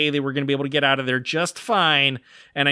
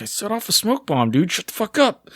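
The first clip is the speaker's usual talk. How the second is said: smug whisper-brag; 6 semitones higher than usual. Retold or imitated. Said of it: "And I was like".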